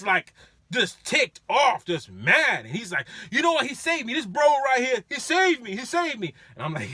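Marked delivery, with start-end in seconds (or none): 3.3-6.3 pitched up, loud tipsy praise; drunk bragging praise. Retold or imitated. Drunk rider telling friends driver saved him, high tipsy voice.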